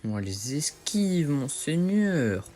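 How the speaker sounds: slow, drawn-out boast; mock grandeur. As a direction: savour it like a lord. Se vante en jouant. (vantardise lente et théâtrale)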